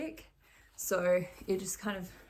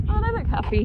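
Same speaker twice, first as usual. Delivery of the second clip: delighted coo; 13 semitones higher, 14 dB louder, faster than usual. Real, not acted. Cooing at the ponies.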